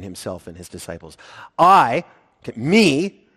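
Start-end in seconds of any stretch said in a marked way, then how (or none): 1.6-2.0 I punched hard and loud; emphatic. Shown as a demonstration. Preacher showing the contrast with the disciples, emphatic. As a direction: hit the word I, standing alone. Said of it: "this is put in the emphatic position".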